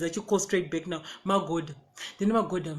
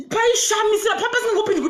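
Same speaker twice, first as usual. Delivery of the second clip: laughing; 11 semitones higher, 5 dB louder than usual. Real, not acted. Laughing at the memory.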